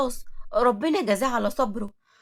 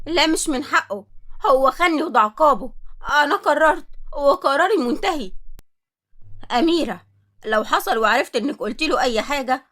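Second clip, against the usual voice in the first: firm angry refusal; 4 dB louder than usual. Acted. Wife angrily refusing friend.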